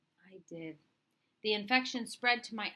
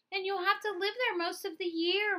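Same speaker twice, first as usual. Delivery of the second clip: higher, louder objecting voice; brother's objection; 11 semitones higher, 4 dB louder than usual. Acted. Brother objecting that Louis must live away, higher voice. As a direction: add the objection firmly. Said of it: "my brother added".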